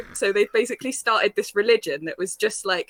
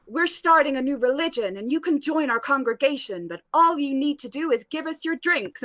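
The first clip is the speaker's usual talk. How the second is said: 1 lightly voiced Tails; 4 semitones higher than usual. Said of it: "Did everyone sound like Tails from Sonic?".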